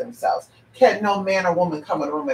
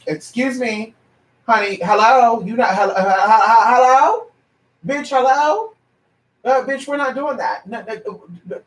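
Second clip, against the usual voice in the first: indignant callout; 4 semitones higher than usual. Real, not acted. To the gossiping caller, indignant higher hellos. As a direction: demand they stop, rising in pitch.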